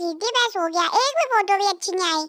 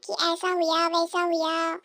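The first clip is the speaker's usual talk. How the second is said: quiet grumbling; 9 dB quieter than usual. Acted. पत्नी खुद से धीमे बुदबुदाती है.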